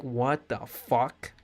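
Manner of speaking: slow disbelief. Retold or imitated. Acting disbelief at the promotion.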